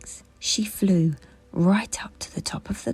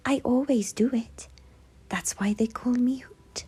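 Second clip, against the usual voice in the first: higher, friendly little owl; the owl Hoot; 8 semitones higher than usual. A narrator's reading. Hoot explaining her noise to the toys, higher and friendly. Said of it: "said the owl".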